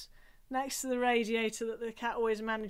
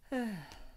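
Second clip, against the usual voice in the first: gentle sigh with tongue out; 8 dB quieter than usual. Shown as a demonstration. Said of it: "go for a gentle".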